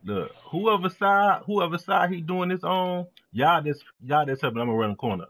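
loud coaching callout; shouting orders over battle. Real, not acted. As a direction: bark instructions at teammates. Directing teammates on defense.

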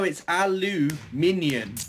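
"aluminium" slowly, ending like "minion"; corrective pronunciation. Shown as a demonstration. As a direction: spell out "aluminium" as alu-MIN-yun, drawn out. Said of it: "Minion, as in".

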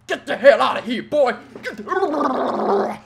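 loud, high yell with a laugh; laughing shout. Real, not acted. Gamer yelling at the opponent to get out, laughing.

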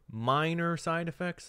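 high, slow incredulous question. Acted. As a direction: stretch it out in disbelief. General reacting to bad news.

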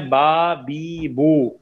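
"बा, बी, बू" with each long vowel held two counts; two-count madd. Shown as a demonstration. Teacher drilling the madd rule for students, long held vowels. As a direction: stretch each vowel in "बा, बी, बू" evenly. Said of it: "तीनों की हरकत दो".

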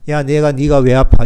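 a touch of irritated scolding; mock scolding. Five-year-old scolding a crying child, mildly irritated. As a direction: snap mildly at a hurting child. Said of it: "이러면 안 되잖아요".

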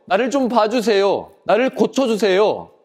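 acted crying out. Blind man begging Jesus to heal him, crying out. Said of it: "부르짖었어요".

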